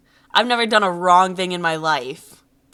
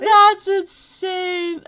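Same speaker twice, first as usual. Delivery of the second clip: laughing disbelief; 10 semitones higher, much slower than usual. Real, not acted. Laughing at the school shooter joke.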